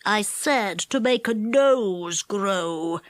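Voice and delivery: "nose" stressed slowly and low. A narrator's reading. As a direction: correct him, leaning on "nose". Goblin corrects him.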